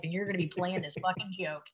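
soft unvoiced aside; whisper. Real, not acted. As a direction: whisper it under your breath.

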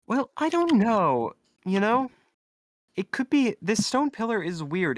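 high-pitched, uncertain character voice; doubtful bystander. Acted.

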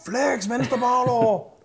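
high, drawn-out yell, not full volume; shouted coaching command. Retold or imitated. Coach yelling to his athlete on stage, high retold shout. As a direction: call out a stretched, high-pitched order. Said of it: "Jeg råbte".

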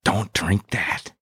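slow, drawn-out character voice; slow, hammed-up warning; quoted character warning. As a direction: stretch it out slowly, rising at the end. Quotes a show character's famous line.

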